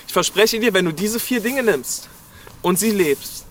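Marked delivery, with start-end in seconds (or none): none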